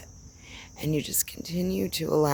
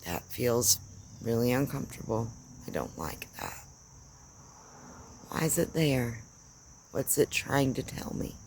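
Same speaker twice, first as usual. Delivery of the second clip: soft inner questioning; 2 semitones lower, 6 dB quieter than usual. Pretend. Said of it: "and going".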